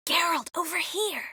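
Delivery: high-pitched call for attention; calling him over. Acted.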